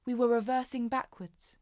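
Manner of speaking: subdued Jackie. Acted. Jackie recalling being trapped on a bombed Tube line, subdued and haunted. Performs Jackie's monologue from modern play.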